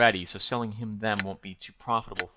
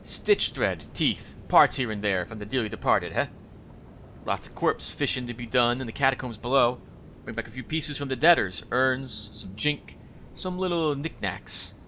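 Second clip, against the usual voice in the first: a lightly voiced wheezing, shifty trader; hint of a grubby merchant haggling; grimy shopkeeper voice. Streamer voices shopkeeper Quint.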